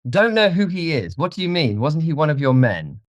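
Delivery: high-pitched incredulous questioning; startled disbelief. A narrator's reading. Dorian questions his keeper, startled and high.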